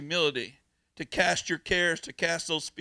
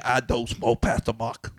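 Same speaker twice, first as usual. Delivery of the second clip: put-on child's voice; 7 semitones lower, 3 dB louder than usual. Child's reply voiced in story.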